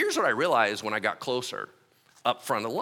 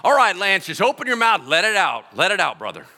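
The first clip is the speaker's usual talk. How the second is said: louder urging, pushing him on; coaxing prayer leader; 3 semitones higher, 7 dB louder than usual. Retold or imitated. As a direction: urge him to let it out. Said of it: "They're like".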